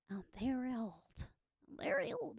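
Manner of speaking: put-on creaky old lady; old crone voice. Streamer hamming up an old granny after a birthday. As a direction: play a doddering granny. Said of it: "dear, dearie".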